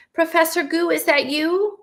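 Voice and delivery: hint of a fussy young student; a ghostly student calling out to his professor; lightly voiced student. A narrator's reading.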